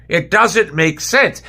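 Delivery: each word slow and heavy, disbelief; slow exasperated. Real, not acted. Fan repeating his point to viewers, very slowly. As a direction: drag out every word of It doesn't make sense.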